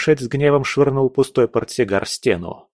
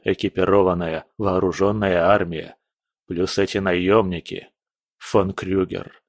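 lower, steady voice of a seasoned general; calm general; 4 semitones lower than usual. Acted. General warns the prince of the enemy, low and steady. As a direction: report the bad news without flinching.

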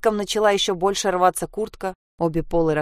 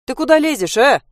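higher, louder annoyed snap; indignant man; 7 semitones higher, 8 dB louder than usual. Acted. The fox-hat man snaps at the girl climbing onto him. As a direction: bristle at the girl climbing on you. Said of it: "возмутился он".

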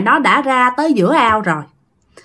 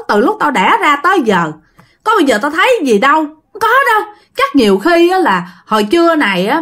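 a hint of a dismissive village boy, pitched up; 1 lightly voiced friend; 4 semitones higher than usual. Sinh to his scared friend, a hint of mocking reassurance. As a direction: laugh it off, brushing the fear aside. Sinh laughs off the ghost story.

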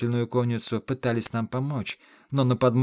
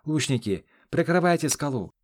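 raised, higher battle command; called order; 5 semitones higher than usual. A narrator's reading. Hero ordering archers to cover his friend, called order. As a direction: call out the order over a fight.

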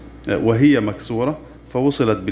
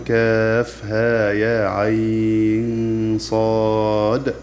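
قراءة مجودة؛ ترتيل بطيء ممدود للحروف؛ رتّل الحروف المقطعة ببطء ومد طويل؛ ترتيل قرآني بطيء; much slower than usual. Shown as a demonstration. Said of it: "قوله تعالى".

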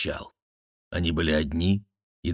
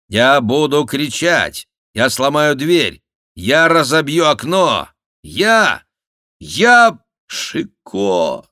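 louder and higher to a shout; building threat; 9 semitones higher, 9 dB louder, slower than usual. Acted. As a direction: escalate the threat to a yell. Jester threatens, escalating. (нарастающая угроза до крика)

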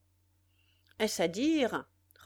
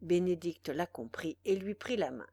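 ordinary delivery, nothing marked

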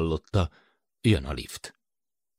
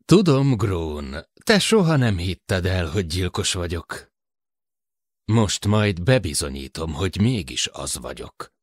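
a lightly voiced menace, slowing at the end; menacing killer. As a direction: threaten Grón, cold and sure. Ope suddenly menacing, a murderer. (fenyegető gyilkos hangja)

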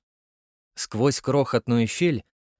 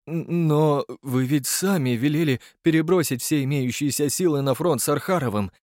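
timid; 3 semitones higher than usual. Acted. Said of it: "робко заметил Дворецкий".

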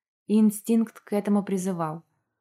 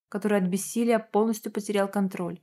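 plain reading voice

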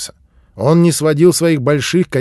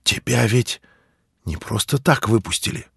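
hushed, softer awe; awed; 5 dB quieter than usual. A narrator's reading. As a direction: ask it softly, full of wonder. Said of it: "в её голосе послышалось такое же благоговение".

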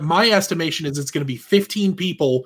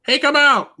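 higher-pitched mock call-out; mock yell; 10 semitones higher, 4 dB louder than usual. Police officer calling to a man barricaded inside, mock yell. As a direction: call out as if to someone holed up inside. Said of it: "nobody bothered to yell".

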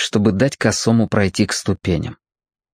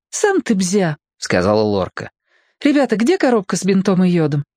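put-on lightly higher girl's voice; girl scolding then bustling for bandages; girl Lorka; 9 semitones higher than usual. A narrator's reading. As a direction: snap back, then ask fast. Lorka snapping, then asking.

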